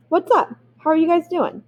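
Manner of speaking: high, chirpy casual hello; a kid showing off new slang; breezy greeting. Retold or imitated. Reading his own breezy letter.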